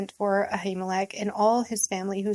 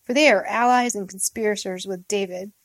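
a louder, hurried command to the guards; angry order; 4 dB louder than usual. Acted. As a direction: bark it like a furious king to his guards. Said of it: "he ordered his bodyguards".

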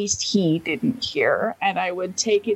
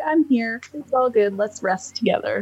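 reassuring; 3 semitones higher than usual. Acted. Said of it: "be like".

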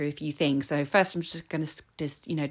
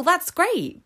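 sarcastic; 13 semitones higher, 6 dB louder than usual. Real, not acted. Ironic reply to normal bloods.

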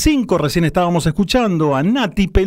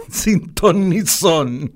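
laughing; much slower than usual. Real, not acted. Laughs while repeating it.

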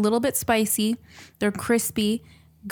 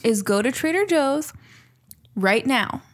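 mock serious instructions; 3 semitones higher than usual. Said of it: "listen to me very carefully".

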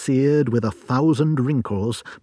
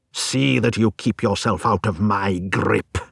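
snarling; 2 semitones lower than usual. Acted. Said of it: "he snarled".

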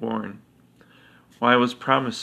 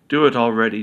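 demanding; 6 dB louder, faster than usual. Acted. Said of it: "demanded Prighavel".

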